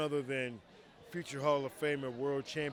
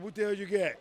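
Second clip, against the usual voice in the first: surprised question; 6 semitones higher, 6 dB louder, faster than usual. Retold or imitated. Surprised at the DVD player.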